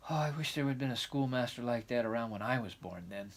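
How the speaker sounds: put-on lively, eager young girl; excited girl voice. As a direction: chatter on like a dreamy child. Anne crossing the bridge.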